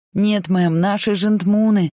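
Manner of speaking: high, loud, out-of-breath cry; breathless panic. Acted. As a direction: gasp it out in terror. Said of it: "задыхаясь, выкрикнула Присси".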